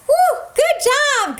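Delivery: high, drawn-out woo for the dog; excited cheer. Real, not acted. Dog just did high five.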